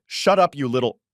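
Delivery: put-on angry boy screaming at a classmate. A narrator's reading. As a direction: yell it at your rival. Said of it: "With such screams".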